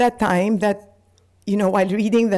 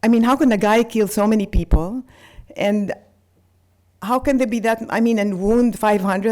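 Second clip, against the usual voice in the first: horrified; 3 semitones higher than usual. Retold or imitated. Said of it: "I was just horrified".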